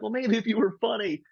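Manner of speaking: retold snide heckle. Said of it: "they were like".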